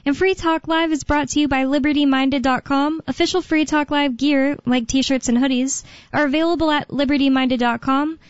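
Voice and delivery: upbeat, steady station announcer read; radio promo read. Acted. Host plugging the show and its merchandise, promo read. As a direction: read out the sponsor plug smoothly. Reads station ID and sponsor plug.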